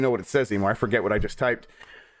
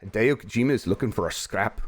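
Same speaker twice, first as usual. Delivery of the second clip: tentative Scottish accent; Scottish accent attempt; 3 semitones lower than usual. Shown as a demonstration. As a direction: try out a Scottish accent, copying a native speaker. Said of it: "Can I get a Scottish accent".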